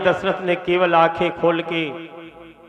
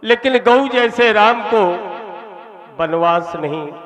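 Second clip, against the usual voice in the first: a hint of a desperate king, pitched higher; pleading king; 4 semitones higher than usual. Dasharatha begs Kaikeyi to spare Rama, lightly voiced, rising anguish.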